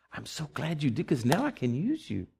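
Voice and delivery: soft, hushed answer from God; God's quiet reply. Retold or imitated.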